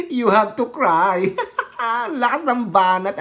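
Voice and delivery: laughing through the words; slow quote breaking up into laughter; can barely hold the laugh in; real laughter. Real, not acted. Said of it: "Tawang-tawa talaga ako".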